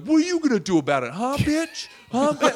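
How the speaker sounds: fast, loud, high imitated taunt; yelling challenge. White guys' table to the ladies, yelling. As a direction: imitate a man yelling for a fight. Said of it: "yelling across the audience".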